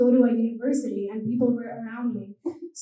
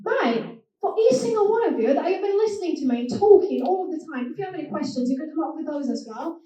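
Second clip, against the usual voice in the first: Norfolk accent; 3 semitones higher than usual. Shown as a demonstration. Inviting the audience to ask questions, Norfolk accent.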